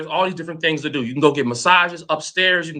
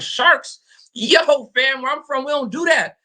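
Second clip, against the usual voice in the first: mock alarm; 6 semitones higher than usual. Retelling his shark fear.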